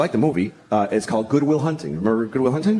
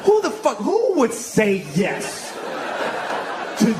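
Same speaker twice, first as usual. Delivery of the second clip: high-pitched exasperation; exasperated rant; 5 semitones higher, slower than usual. Real, not acted. Comic ranting about the apples prank, exasperated. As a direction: burst out high in disbelief.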